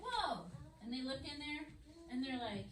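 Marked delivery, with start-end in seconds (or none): 0.0-0.5 high-pitched falling whoa; acted amazement. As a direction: mimic awestruck disciples, pitched up high. Disciples reach the empty tomb.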